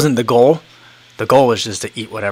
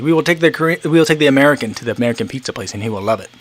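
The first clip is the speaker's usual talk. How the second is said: lightly mimicked Korean-people accent, raised at first; put-on Korean-people accent; 2 semitones higher, faster than usual. Korean hosts taking the American out for pizza, lightly put-on accent. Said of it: "I say the Korean people's accent".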